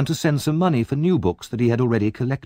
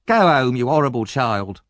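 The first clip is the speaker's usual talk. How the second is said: louder, scolding bystander; scolding woman; 3 semitones higher, 4 dB louder than usual. Acted. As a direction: tell the boy off.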